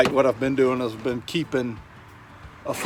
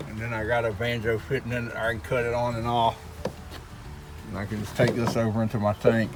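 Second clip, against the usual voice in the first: talking around a cigar; cigar in mouth. Real, not acted. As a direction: cigar clenched in teeth, words mumbled. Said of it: "I got a cigar in my mouth, that's why I'm talking like that".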